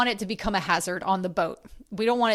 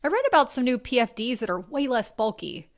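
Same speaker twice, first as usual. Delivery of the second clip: sweet suggestion; 4 semitones higher than usual. Shown as a demonstration. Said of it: "You can say".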